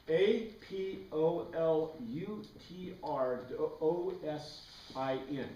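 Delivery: A P O L U T R O S I N called out slowly, letter by letter; slow spelling for the class; spelled letter by letter. Shown as a demonstration.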